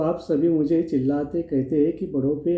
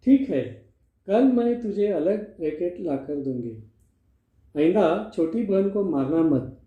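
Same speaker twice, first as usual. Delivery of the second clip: scolding. Acted. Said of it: "माँ गणेश को डांटती है, चिल्लाती है".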